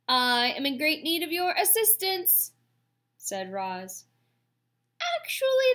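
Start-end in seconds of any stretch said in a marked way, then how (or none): 0.1-2.5 high, loud cheery robot greeting; booming friendly voice. A narrator's reading. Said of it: "friendly voice boomed over the water". 5.2-5.7 very high, loud sing-out; cheerful robot. A narrator's reading. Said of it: "why does your voice sound so cheerful".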